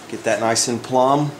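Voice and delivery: normal talking voice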